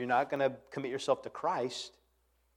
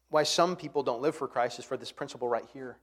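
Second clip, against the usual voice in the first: usual speaking voice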